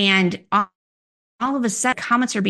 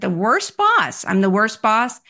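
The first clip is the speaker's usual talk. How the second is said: mild mock disbelief, pitched up; retold questioning echo; 3 semitones higher than usual. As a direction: echo the accusation back as a question. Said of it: "And I said".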